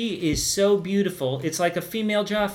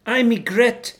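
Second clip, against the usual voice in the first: bellowed; 4 semitones higher, slower than usual. Acted. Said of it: "the woman bellowed".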